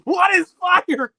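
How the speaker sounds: high, slow dopey voice; goofy high-pitched parody; mimicking the clip. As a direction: squeak it out slowly like a clueless kid. Mocking the clip's line.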